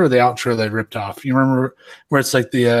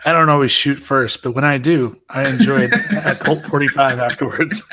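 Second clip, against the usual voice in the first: ad parody. Pretend. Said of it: "like the most interesting man in the universe".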